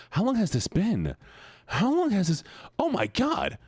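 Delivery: high, rising outrage at the mess; alarmed. Real, not acted. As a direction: squeal it in disbelief. Ceiling covered in drawings.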